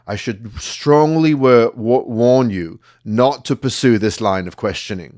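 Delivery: Oxbridge mafia threat, measured; posh Oxbridge accent. Retold or imitated. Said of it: "crazy mafia threat in this Oxbridge accent".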